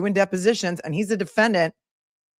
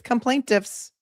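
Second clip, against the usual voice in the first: quoting coinage; 5 semitones higher, slower than usual. Real, not acted. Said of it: "who just coined that phrase".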